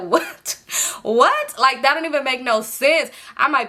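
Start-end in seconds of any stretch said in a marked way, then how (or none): 0.1-1.6 high rising double what; disbelieving. Real, not acted. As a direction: ask it twice in shock. Her disbelief at his plan.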